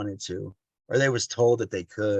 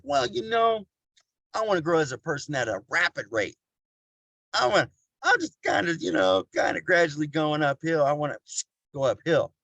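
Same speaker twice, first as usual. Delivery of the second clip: mock impatience; 4 semitones higher than usual. Speaker mimics someone wanting rapid growth, mock impatience. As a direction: start high on a put-on wheedle, then ease down.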